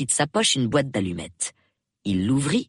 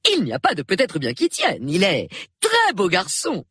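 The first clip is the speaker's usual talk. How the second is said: higher, emphatic rebuttal; insistent; 7 semitones higher than usual. Acted. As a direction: press the point firmly. Friend insists against evasive answer. (ton insistant, sans réplique)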